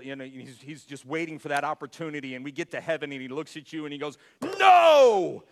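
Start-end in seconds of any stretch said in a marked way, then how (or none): 4.6-5.4 booming, much louder mock verdict from an angry God; judgmental God. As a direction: yell the sentence like a furious judge at heaven's gate. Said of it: "God the Father is some sort of judgmental".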